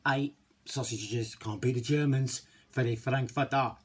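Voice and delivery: slow, loud German action-hero accent; hammy Austrian tough guy, slow and loud; Arnie accent. Shown as a demonstration. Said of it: "A bit of Arnie creeping in there".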